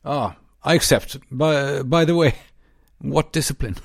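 bad impression of an English statesman; Winston Churchill. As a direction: do a poor imitation of a grand old Briton. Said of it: "en dålig imitation".

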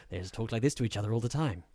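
quick, lightly voiced smooth posh actor; a hint of a calm British narrator; smooth soft-spoken voice. Shown as a demonstration.

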